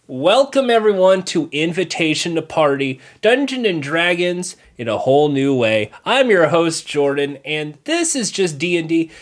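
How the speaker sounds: upbeat TV host welcome; show host intro. Pretend. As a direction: open the show like a game-show host. Hosts a mock show intro.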